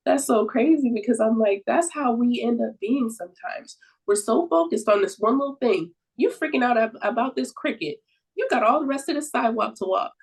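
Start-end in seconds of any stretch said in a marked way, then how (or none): 4.1-10.1 higher-pitched animated chiding; exasperated reality check. Acted. Talking to someone freaking out about a cricket, animated chiding. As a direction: animatedly point out what they're missing.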